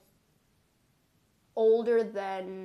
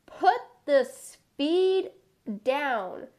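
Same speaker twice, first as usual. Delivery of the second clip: high whiny plea; 3 semitones higher, 4 dB louder, much slower than usual. Acted. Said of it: "This is not fun".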